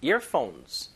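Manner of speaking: Earphones with the final z clearly sounded; carefully modelled Earphones, plural ending kept; plural S demo. Shown as a demonstration. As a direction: close Earphones on a voiced z. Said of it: "이어폰에 S가 너무 많이 빠져요".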